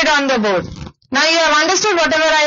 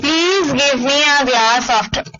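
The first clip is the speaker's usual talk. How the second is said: polite request; slower than usual. Shown as a demonstration. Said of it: "Request means".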